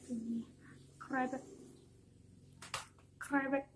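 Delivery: mother frog showing her croak; spoken "krebek" as a light frog croak; mother frog's call. Acted. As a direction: model the croak for a child to copy. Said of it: "Bersuaralah seperti ini".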